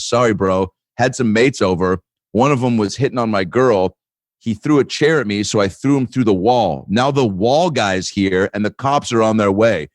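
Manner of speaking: mock-casual account of mayhem; matter-of-fact. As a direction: report it evenly, like routine news. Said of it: "he was just so matter of fact".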